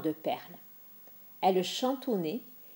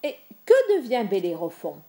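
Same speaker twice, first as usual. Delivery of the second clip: stammering; 5 dB louder, faster than usual. Acted. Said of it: "Il bredouilla".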